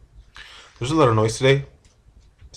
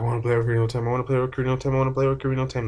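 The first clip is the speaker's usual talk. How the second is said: eager repeated pleading; 2 semitones higher, much faster than usual. Retold or imitated. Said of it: "like, really bad".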